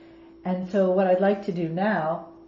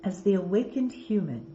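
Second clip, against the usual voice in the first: guided meditation; 3 dB quieter than usual. Acted. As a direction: intone the card message calmly. Reads oracle cards as meditation.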